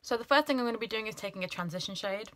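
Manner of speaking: brisk tutorial narration; beauty guru voice. Pretend. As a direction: sound like a pro makeup guru. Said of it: "I sound like a beauty guru".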